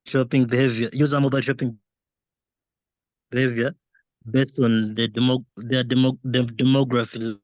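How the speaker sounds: choppy, cutting-out connection; breaking up. Real, not acted. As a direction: voice dropping out on a bad line. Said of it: "you're breaking up a bit".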